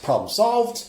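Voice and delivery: high, loud whooping glee; mock celebration. Recalling his giddy relief after the divorce, gleeful whoop. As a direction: cheer like the problem just vanished.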